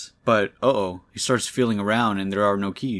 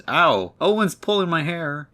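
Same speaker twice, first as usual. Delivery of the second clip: put-on high, louder child's complaint; little sister yelling; 7 semitones higher, 4 dB louder than usual. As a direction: whine it like a kid tattling. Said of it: "the sister yells".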